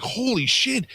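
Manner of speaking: shocked disbelief. Retold or imitated. Amazed reaction to psychic's guess.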